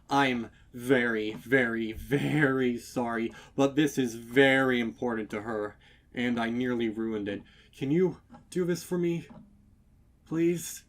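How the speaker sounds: loud, fast, begging husband; panicked stallion begging the baker; desperate pleading. A narrator's reading. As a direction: rush the plea, clutching at hope. Stallion begging, grabbing her hoof.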